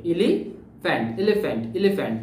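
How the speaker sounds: এলিফ্যান্ট with PH said as F, "e-li-fent"; teacher demonstrates PH as F in এলিফ্যান্ট; pronunciation demo. Shown as a demonstration. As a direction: model এলিফ্যান্ট, the PH sounding like F. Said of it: "সেই উচ্চারণটা এফ এর মতো হয়ে যাবে".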